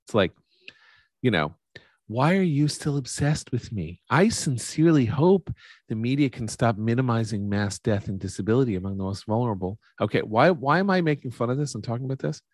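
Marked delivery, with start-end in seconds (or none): 2.1-9.8 sneering fake sweet whine; mock a smug mean girl. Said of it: "you can hear the mean girl voice there".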